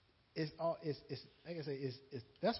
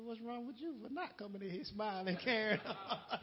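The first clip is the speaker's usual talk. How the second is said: laughing retort; 3 semitones higher than usual. Retold or imitated.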